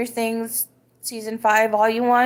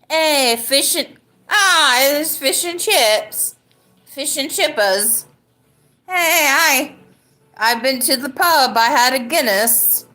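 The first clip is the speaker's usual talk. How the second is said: high, slow, hammed-up British; British accent; 6 semitones higher than usual. Shown as a demonstration. Drunk streamer retrying a British accent, hammy and high. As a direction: try a badly faked British accent, pitched up. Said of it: "Let me try it".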